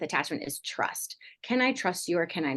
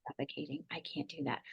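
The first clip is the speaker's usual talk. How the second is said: soft, deflated and worn out; smothered, drained; 3 semitones lower, 14 dB quieter than usual. Retold or imitated. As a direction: let it sag out like you're suffocating. Kids pushing back on smothering parent.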